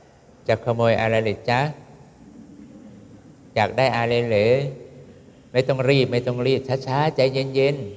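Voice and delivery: slow, coaxing sweetness toward a burglar; sweet gentle talk. Pretend. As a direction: soothe the thief, tell him no need to hurry. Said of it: "พูดเพราะๆ".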